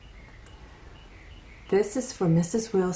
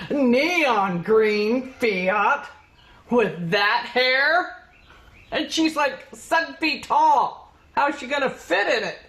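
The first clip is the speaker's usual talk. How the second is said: gossipy disbelief; 5 semitones higher than usual. Acted. Mocking teacher gossip.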